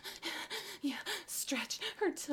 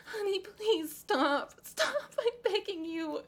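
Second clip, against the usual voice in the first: tearful begging; 7 semitones higher than usual. Acted. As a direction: beg her to stop through tears. Desperate begging.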